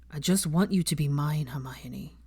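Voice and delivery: tired, resigned plea; weary. Acted. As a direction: say it wearily, worn out. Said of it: "told her wearily".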